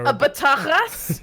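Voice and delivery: bataras said slowly with a French lilt; mock French. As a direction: repeat bataras slowly, teasing the French slip. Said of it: "I said it in French".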